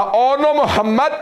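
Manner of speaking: high, slow, sobbing lament; slow wailing cry, voice breaking high; weeping. Acted. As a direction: cry out to the dead son through tears. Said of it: "एक जुमला रो के कहा".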